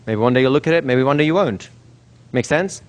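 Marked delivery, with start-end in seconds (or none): 0.0-1.7 offhand, matter-of-fact understatement; casual, played down. Shown as a demonstration. Hypnotist playing down an experience for the subject, casual. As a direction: keep it casual, no big deal. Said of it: "You're gonna play it down. It's casual".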